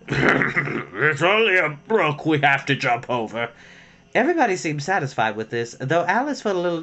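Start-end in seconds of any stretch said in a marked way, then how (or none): 0.1-3.5 slow, calm horse voice; lightly voiced horse. A narrator's reading. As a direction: say it like a placid horse. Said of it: "quietly drew it in and said".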